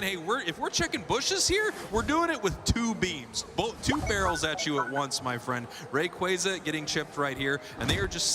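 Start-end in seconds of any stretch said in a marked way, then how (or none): 0.0-5.7 voicing a player. Voicing the team's callouts.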